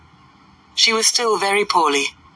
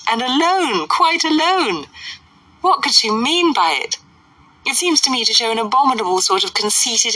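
higher, incredulous lady, building then settling; scandalised society lady; 4 semitones higher than usual. Acted. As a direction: draw out the horrified disapproval.

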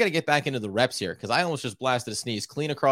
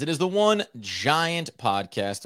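grandiose greeting; 4 semitones higher, slower than usual. Acted. Grand podcast opening.

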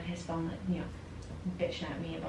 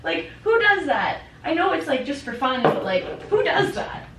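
exasperated disbelief; 9 semitones higher, 5 dB louder than usual. Real, not acted. Friend venting to co-host about a man's behaviour, exasperated disbelief. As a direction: lean hard on the baffled question.

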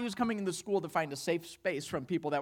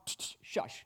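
sharp whispered shush; hushing; 8 dB quieter than usual. Retold or imitated. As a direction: hush it with barely any voice. Voices Jesus hushing the storm.

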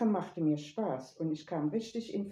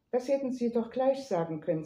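higher, quicker, friendly reproach; cordial; 6 semitones higher, 3 dB louder, faster than usual. A narrator's reading. Neighbours greeting him on the stairs, cordial. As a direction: chide them kindly, pitched up and brisk. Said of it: "sagten sie herzlich".

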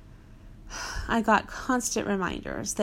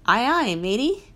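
loud, hammy pirate greeting; 3 semitones higher, 7 dB louder than usual. Pretend. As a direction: bark it like a cartoon pirate. Wearing an eye patch, pirate joke.

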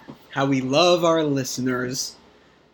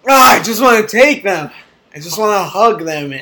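gushing; 5 semitones higher, 7 dB louder than usual. Real, not acted. Gushing over the listeners.

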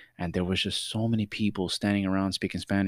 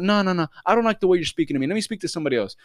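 higher-pitched, insistent objection; indignant demand; 8 semitones higher, faster than usual. Retold or imitated. Customer demanding someone else from the clerk, indignant. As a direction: cut her off in imitated indignation.

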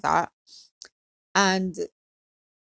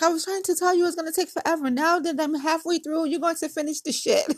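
high, insistent telling-off; pitched-up, run-on scolding; imitated scolding friend; 7 semitones higher, faster than usual. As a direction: mimic an exasperated friend in a raised voice. Friend scolding her, voiced.

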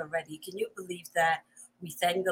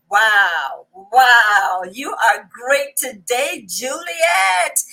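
loud excited cheer; excited shout; 9 dB louder, much slower than usual. Real, not acted. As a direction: shout her name with joy.

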